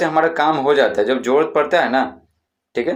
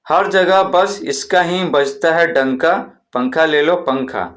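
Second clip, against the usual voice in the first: slow, slightly raised hawker chant; vendor's rhyming cry; 3 semitones higher, slower than usual. Shown as a demonstration. Teacher continues the fan seller's rhyme for pupils, slow sing-song call. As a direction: sell the fans with a sing-song boast. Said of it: "और क्या चिल्लाएंगे".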